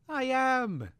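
high, loud indignant protest. A narrator's reading. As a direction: insist you were listening. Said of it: "he protested".

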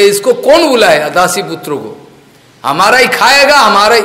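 scornful, accusing retort; angry Duryodhan. Retold or imitated. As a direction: build from demand to loud outrage. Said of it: "Duryodhan का बड़ा गुस्सा आया".

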